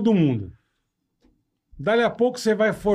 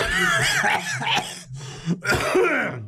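coughing, choking on a hair; real choking cough on hair; 6 semitones higher than usual. Real, not acted. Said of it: "Engasguei com o pelo".

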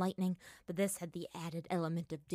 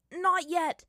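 retorting; 11 semitones higher, 9 dB louder than usual. A narrator's reading. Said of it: "Aang shot back".

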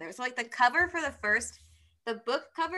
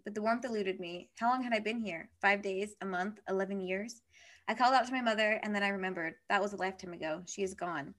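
measured, even reading aloud; story narration; 4 dB quieter than usual. A narrator's reading. Reading a book's opening to a friend, measured narration. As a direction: read the novel's opening with soft-ending phrases.

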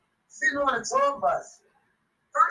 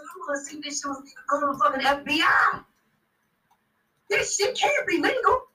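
outraged shout. Retold or imitated. Shouting at the crew about the tape. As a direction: yell it like you're calling the feds.

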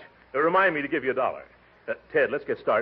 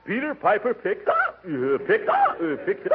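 running out of air; 12 semitones higher than usual. Acted. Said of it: "without taking a breath".

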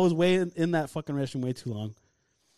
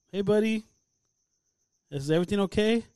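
put-on slightly raised voice for a small child; gentle checking-in; 5 semitones higher than usual. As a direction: retell a careful call to a little kid.

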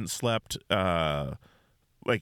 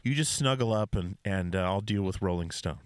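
hushed, tender shushing; 3 semitones lower than usual. Pretend. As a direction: soothe a sleeper like a parent. Tender bedside comforting, role-play.

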